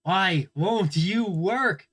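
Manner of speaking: slow, drawn-out plea; pleading with a machine. Real, not acted. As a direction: beg the computer to work. Pleading with frozen computer.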